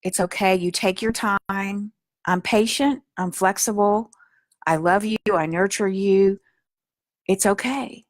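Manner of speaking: tender and patient; gentle reassurance. Shown as a demonstration. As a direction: comfort a scared part of yourself. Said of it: "We're gonna stay in".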